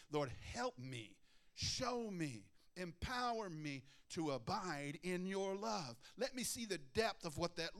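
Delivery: slow, lifted pleading prayer; earnest prayer. Acted. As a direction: plead slowly, reaching upward.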